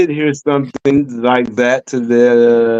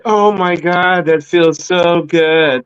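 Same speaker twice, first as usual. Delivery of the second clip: mock monotone moan; slower than usual. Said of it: "like that in the bed".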